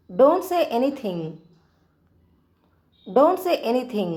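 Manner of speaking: very slow, each word stretched out; slow teaching drill. Shown as a demonstration. Teacher drilling "Don't say anything" very slowly for Telugu learners. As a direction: draw every word out so learners can copy. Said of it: "ఏమీ చెప్పకు అనాలంటే ఇంగ్లీష్లో".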